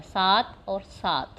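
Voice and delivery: सात and सात said slowly to set थ against त; contrast demo. Shown as a demonstration. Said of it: "थोड़ा सा ही साउंड में फ़र्क होता है". (थ और त का फ़र्क दिखाता धीमा उच्चारण)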